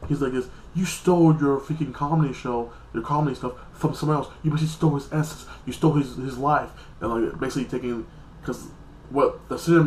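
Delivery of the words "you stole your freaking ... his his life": a half-hearted retelling of a furious outburst; mock angry rant. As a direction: accuse him hotly, voice raised. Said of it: "Lucifer flips out".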